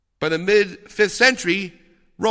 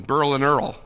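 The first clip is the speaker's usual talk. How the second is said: put-on Brooklyn accent. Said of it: "as they say in Brooklyn".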